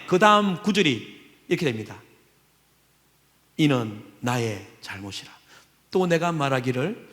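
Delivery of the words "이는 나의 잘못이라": solemn confession. Shown as a demonstration. Psalmist humbly confessing, low and solemn. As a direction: linger on 이는, deep and contrite. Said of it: "reads verse slowly, low".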